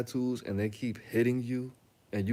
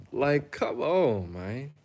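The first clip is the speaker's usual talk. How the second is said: exasperated; 3 semitones higher, much slower than usual. Real, not acted. Exasperated drawn out.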